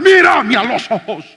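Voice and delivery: slow, loud stern order; stern command. Retold or imitated. Pastor ordering the caught thief to look at him, stern.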